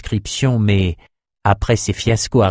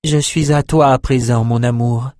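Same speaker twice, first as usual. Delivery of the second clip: higher-pitched woman's voice; devoted wife; 3 semitones higher than usual. Acted. Empress pledging herself to husband, ignoring lover, devoted wife. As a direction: pledge it in a lightly raised voice.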